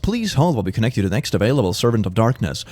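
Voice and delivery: a lightly voiced automated phone message. Parody hold-line recorded message.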